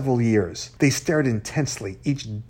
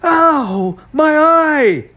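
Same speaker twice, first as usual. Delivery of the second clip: loud, very high yelps; screeching in pain; 14 semitones higher, 8 dB louder, much slower than usual. A narrator's reading. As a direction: screech as if suddenly hurt. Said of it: "to his face and screeched".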